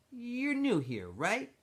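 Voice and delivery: a smooth-talking camp leader pulling him aside; X-Ray's voice. Acted. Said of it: "said X-Ray".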